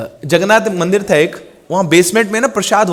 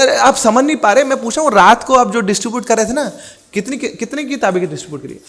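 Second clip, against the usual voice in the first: impatient guru; 6 semitones higher than usual. Retold or imitated. Guru repeats his question impatiently.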